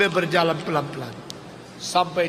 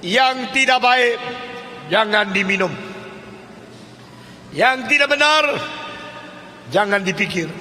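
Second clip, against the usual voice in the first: moralizing lecture. Acted. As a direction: preach rules down at him. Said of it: "mulai mengatakan dengan kalimat".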